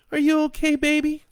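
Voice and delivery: high, loud tearful mother voice; through tears. A narrator's reading. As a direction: ask it while crying. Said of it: "asks through her tears".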